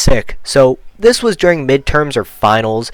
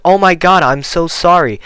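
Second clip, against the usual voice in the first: high-pitched mock apology; fake sympathy; 6 semitones higher than usual. Teacher to student back from flu, falsely sympathetic. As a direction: gush insincerely through a fake smile. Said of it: "with a fake-ass smile".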